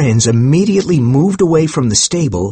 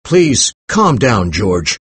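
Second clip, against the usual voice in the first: calming; slower than usual. Acted. Professor soothing his angry friend.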